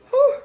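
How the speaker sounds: high, quick exhaled whew; emotional whew. Real, not acted. Mother moved by babies growing up too fast, emotional whew. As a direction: blow out a breath to collect yourself. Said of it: "that just got me".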